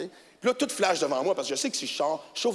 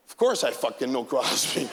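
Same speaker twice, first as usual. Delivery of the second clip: exasperated retort; 7 semitones lower than usual. Retold or imitated. Cop's incredulous retort.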